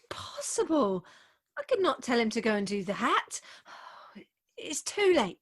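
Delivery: breathy sighing resignation; resigned whisper. Acted. Bride resigned to her marriage, sighing whisper. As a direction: sigh it out hopelessly.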